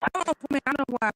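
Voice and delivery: muffled, distant phone line; sounds like in a tunnel. Real, not acted. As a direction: voice fading out like in a tunnel. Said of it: "You're doing that again".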